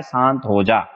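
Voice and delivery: soothing. Shown as a demonstration. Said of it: "इसकी trick मैंने बताई थी".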